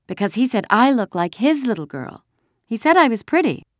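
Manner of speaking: put-on high, pleased little girl; child proudly passing on a compliment; happy. A narrator's reading. Kirsty tells Mama what the soldier said, happily. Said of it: "Kirsty announced happily".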